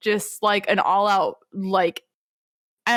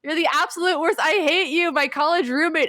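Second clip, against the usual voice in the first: Buggy's tirade; 10 semitones higher than usual. Retold or imitated. Buggy refuses Shanks's request, in a high, hammed-up tirade. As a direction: shriek it like a hammed-up tantrum. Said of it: "in the middle of this tirade".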